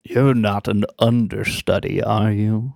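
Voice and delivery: lightly voiced suspicious halfling; halfling mayor. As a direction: ask it a touch low and wary. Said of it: "and he says".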